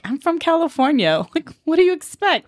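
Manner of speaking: put-on high-pitched Valley Girl retort; Valley Girl accent. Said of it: "There it was".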